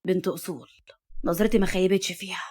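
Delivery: quiet approving grandpa; satisfied grandfather. Acted. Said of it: "هز الجد راسه برضا وقال". (جد راضي بصوت خافت ومنخفض)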